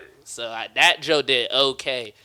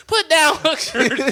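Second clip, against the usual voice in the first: mock dude; 11 semitones higher, 3 dB louder, slower than usual. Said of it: "that dude was".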